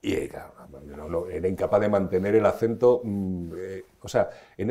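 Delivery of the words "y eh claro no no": usual speaking voice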